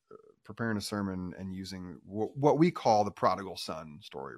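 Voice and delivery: normal talking voice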